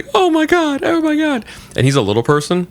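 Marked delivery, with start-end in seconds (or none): 0.1-1.4 high, panicky squeal of oh my God; panicked crying. Retold or imitated. A hammed-up frightened coworker whimpering at the killer. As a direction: squeak it out like a terrified little man begging. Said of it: "the other guy is, like, crying".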